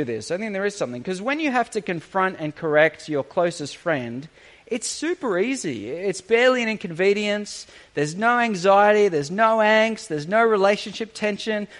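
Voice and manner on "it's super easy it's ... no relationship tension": dry sarcasm, louder on no anxiety; sarcastic. Pretend. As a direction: say it meaning the opposite. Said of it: "I hope you can hear the sarcasm in my voice".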